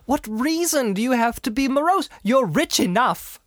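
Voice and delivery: high, gaily teasing voice; gay nephew. Acted. Nephew throwing Scrooge's question back, high and gay. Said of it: "returned the nephew gaily".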